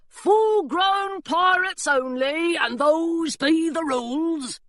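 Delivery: guard insisting on the rules; pirate laying down rules. A narrator's reading. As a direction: spell out the rule firmly. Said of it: "said the burly pirate".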